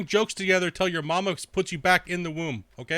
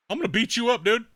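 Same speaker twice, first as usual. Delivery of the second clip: mock troll threat; 7 semitones higher, 3 dB louder than usual. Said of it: "mocking the troll again".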